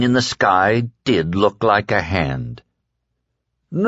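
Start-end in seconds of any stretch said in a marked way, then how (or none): 3.7-3.9 wailing. A narrator's reading. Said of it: "the dark man wailed".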